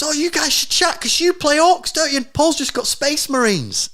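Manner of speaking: high-pitched tipsy wife blurting it out. Retold or imitated. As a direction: mimic your wife, drunk and oblivious. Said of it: "Georgia goes really loud 'cause Georgia's pissed".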